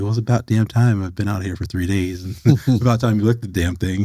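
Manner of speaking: mock-impatient ribbing with a chuckle; joking complaint. Ribbing the host about his resume, jokingly. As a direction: tease him lightly, breaking into a small laugh. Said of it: "And just jokingly".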